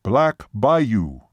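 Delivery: lightly voiced Seminole, terse reply; name the place with some emphasis; imitated Seminole man. Seminole tells waitress where they remain, terse. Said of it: "even imitating his voice and gestures".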